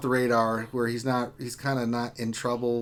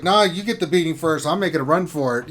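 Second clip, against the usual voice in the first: panicked sibling; 3 semitones higher, 6 dB louder than usual. Retold or imitated. Acting out siblings fleeing mom.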